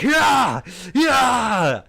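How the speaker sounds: loud, high yell to the horses; high-pitched mock driving cry; driver's shout. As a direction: cry out over a storm, urging horses on. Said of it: "and he's like".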